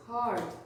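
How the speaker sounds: "Heart" with a clear retroflex R; curled R. Shown as a demonstration. Teacher repeating for pupils to hear, curled R. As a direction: say "Heart" carefully, tongue back on the R. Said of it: "Olha o R mais uma vez".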